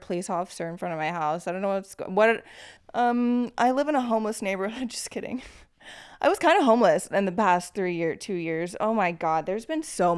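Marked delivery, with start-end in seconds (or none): 4.9-5.4 laughing. Real, not acted. Laughing off her own joke.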